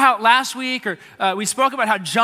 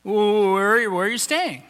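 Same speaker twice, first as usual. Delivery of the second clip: flustered blurt; slower than usual. Retold or imitated. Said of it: "you just say the first thing".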